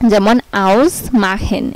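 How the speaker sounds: আউস said slowly with a clear "au" sound; German vowel demo. Shown as a demonstration. Teacher models German ausmachen for Bengali learners, slow and clear. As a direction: stretch the au in আউস.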